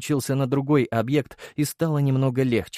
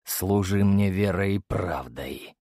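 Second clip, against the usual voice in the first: cold yet gentle; slower than usual. Acted. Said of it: "Голос императора был холоден и ласков одновременно".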